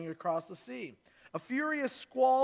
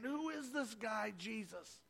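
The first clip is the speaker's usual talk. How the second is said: softer, dropping almost to a hush; awed hush; 10 dB quieter than usual. Acted. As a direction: say it under your breath, amazed. Awed disciples whisper together.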